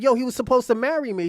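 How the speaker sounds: loud, high, fast retold outrage; indignant protest. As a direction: act out a jilted fiancee protesting. Acts out jilted fiancee's protest.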